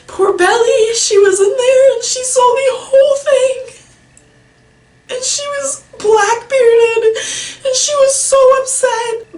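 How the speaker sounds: real crying while telling it, dragging out words. Real, not acted. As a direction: voice climbing into loud sobs. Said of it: "can't say without crying".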